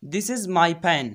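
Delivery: very slow, word by word; deliberate classroom dictation; slow teaching read. Shown as a demonstration. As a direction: spell it out slowly for students. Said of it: "इनका English translate देखो".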